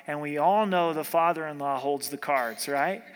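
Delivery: lightly sarcastic aside with a tag question; a little sarcastic. Real, not acted. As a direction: toss in a mildly sarcastic jab. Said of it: "I'm being a little sarcastic there".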